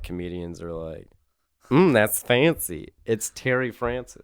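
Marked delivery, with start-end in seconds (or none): 1.7-4.3 stereotypical fancy voice. Retold or imitated. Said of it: "it's like gay voice".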